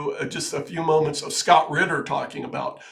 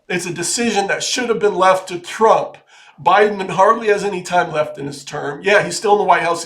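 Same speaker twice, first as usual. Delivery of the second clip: heated emphatic rant; 3 semitones higher, 5 dB louder than usual. Real, not acted. Heated rant about the war decision.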